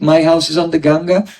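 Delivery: rising, puzzled "My house is on the Ganga?"; puzzled question. Shown as a demonstration. Teacher voicing a listener's puzzled thought, rising at the end. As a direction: wonder aloud at "Ganga" as if it makes no sense. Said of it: "So you think".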